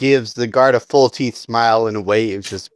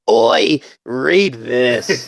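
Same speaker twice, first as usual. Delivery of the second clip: mocking the guard; much slower than usual. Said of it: "holds up his middle finger and says".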